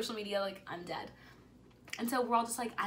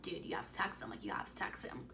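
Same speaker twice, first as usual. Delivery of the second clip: pressing, unvoiced whisper; urgent whisper; 3 semitones lower, 6 dB quieter than usual. Pushing a friend to text him, urgent whisper. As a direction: urge her under your breath. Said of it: "and I'm like".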